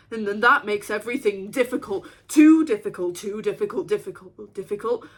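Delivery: sudden loud outburst of worry; agitated, spiking voice; rising panic. Acted. Panics at the imagined precipice.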